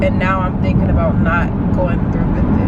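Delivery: tearful, shaky worry in the car; talking through tears, doubting herself; crying on camera, overwhelmed; real crying. Real, not acted. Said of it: "y'all gonna see me crying".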